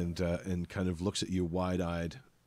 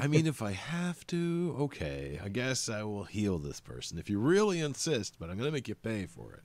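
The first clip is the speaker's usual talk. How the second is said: grudgingly agreeing, lightly put-on voice; reluctant god; 3 semitones higher than usual. God giving in to healing someone for a price, grudging. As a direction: give in with swooping, put-upon reluctance.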